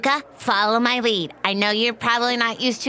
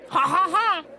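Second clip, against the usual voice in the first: fake posh laugh; 8 semitones higher than usual.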